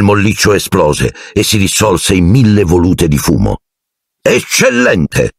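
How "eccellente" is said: high, long-stretched exclamation; thundered praise. A narrator's reading. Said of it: "tuonò il professor Lupin". (lode esclamata, acuta e allungata)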